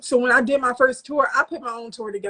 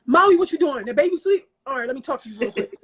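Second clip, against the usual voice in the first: hype imitation. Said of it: "he was hype on the phone".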